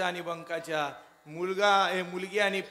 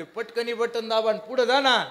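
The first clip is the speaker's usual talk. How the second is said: impatient officer; 4 dB louder than usual. Retold or imitated. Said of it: "ते निवडणूक अधिकारी म्हणले".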